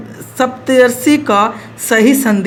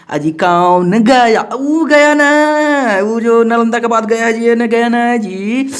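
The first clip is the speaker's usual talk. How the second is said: playful teasing; 4 semitones higher, slower than usual. Acted. Joke mixing up Gaya the city.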